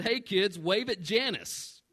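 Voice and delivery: retold gloating singsong call; mock cheer. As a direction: stretch it out with pointed, playful spite. Retold petty instruction to his kids.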